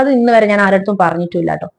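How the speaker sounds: holding back tears as she admits it; tearful. Real, not acted. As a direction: voice catching with real tears. Secret kept since grandmother's death. (കണ്ണീരോടെ)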